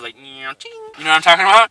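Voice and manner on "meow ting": mock camera noise. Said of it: "it's got this creepy ass noise".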